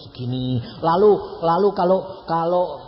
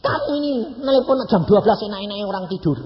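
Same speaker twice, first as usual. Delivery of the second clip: mock scolding; 5 semitones higher, faster than usual. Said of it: "tak marah ya".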